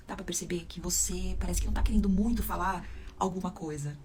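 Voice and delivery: voice held inward. Shown as a demonstration. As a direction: mumble it inward as if you don't want to speak. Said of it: "Senão você vai ficar com aquela voz pra dentro".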